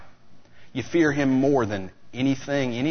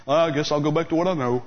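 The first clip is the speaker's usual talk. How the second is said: resigned Peter; faster than usual. Retold or imitated. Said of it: "He went back to fishing".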